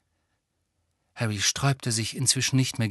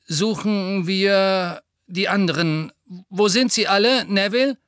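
pained Lupin voice; 6 semitones higher, 3 dB louder than usual. A narrator's reading. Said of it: "als würde ihm jedes Wort Schmerzen bereiten".

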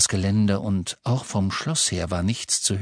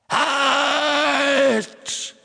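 high sharp shouted halt; commanding shout; 4 dB louder than usual. Acted. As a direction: bark the order to stop. Voldemort commands the Death Eaters.

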